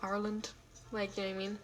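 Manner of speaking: light attempt at an Irish accent; a hint of Irish. Shown as a demonstration. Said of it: "with my Irish accent".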